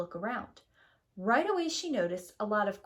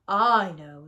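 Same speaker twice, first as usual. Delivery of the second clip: loud; 9 dB louder than usual. Acted. Papa Bear answers loudly.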